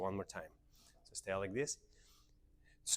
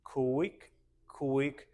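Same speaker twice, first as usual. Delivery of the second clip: rhythmic calls with pauses, SLOW drawn out; dance step count; 3 semitones higher, much slower than usual. Shown as a demonstration. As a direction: call each step on its beat. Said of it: "we say slow".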